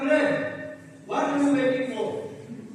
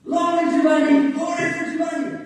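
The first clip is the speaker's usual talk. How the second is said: loud cheer; 2 semitones higher, 7 dB louder than usual. Acted. Children cheering for Giovanni, loud. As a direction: cheer him like a hero.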